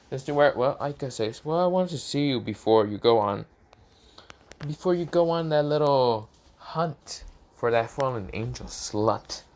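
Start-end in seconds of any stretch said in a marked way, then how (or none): 1.4-9.4 louder, jealous annoyed jab. Acted. Aika jealously snipes at Issei about the hunt, annoyed. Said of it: "she says, very annoyed a little bit".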